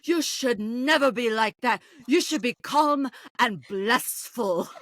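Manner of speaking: slow, soothing motherly advice; lightly voiced mother hen, slow and calm; mock motherly Dorinda. Co-star mimicking Dorinda's motherly advice to Brandy, slow and soothing. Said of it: "her typical great Dorinda motherly advice".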